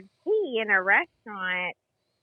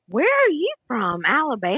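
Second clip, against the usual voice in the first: higher-pitched imitation of a nosy stranger; retold prying question, pitched up; mock incredulous question; 5 semitones higher, 3 dB louder than usual. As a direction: imitate her asking, pitched up in disbelief.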